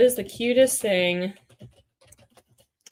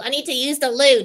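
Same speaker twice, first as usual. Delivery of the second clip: a louder put-on British accent; 5 semitones higher, 5 dB louder than usual. Hedgehog puppet insisting in a louder British accent. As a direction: say it properly British. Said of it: "I'm trying to practice".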